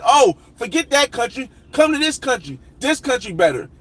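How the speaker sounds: mock hype-vlogger voice; mocking YouTuber. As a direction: parody a vlogger switching favorites. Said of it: "another country and they say".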